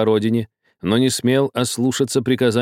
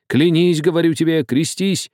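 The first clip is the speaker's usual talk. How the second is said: menacing insistence; 7 semitones higher than usual. A narrator's reading. Old man orders Karlo to cross himself, menacing. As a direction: order it sternly, pitch held high. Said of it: "настаивал грозно старик".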